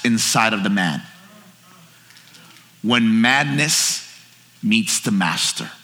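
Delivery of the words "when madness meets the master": slow, lowered voice on the key phrase; solemn sermon refrain, drawn out; weighty slow pronouncement. Real, not acted. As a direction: let each phrase land with weight. Sermon title delivered slowly for weight.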